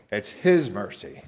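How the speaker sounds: HIS picked out above mercy; stress on HIS. Shown as a demonstration. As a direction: lean firmly on the word his. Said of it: "emphasize the word his".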